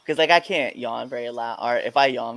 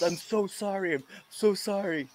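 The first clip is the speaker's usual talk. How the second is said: apologetic; 7 semitones higher, 4 dB quieter than usual. Retold or imitated. Friend apologizing, retold.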